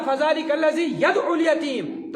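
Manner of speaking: single ayn in "يَدْعُ", pushed out loudly; mispronunciation demo. Shown as a demonstration. Teacher warns of misreading, "يَدْعُ" without doubled ayn. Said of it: "ترجمہ بالکل ہی غلط ہو جاتا ہے".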